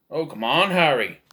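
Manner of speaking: lightly imitated film character, a bit emphatic; a hint of an Irish mentor coaxing; Mad-Eye Moody. Reviewer comparing the actor's two roles, light impression. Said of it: "and there he's like".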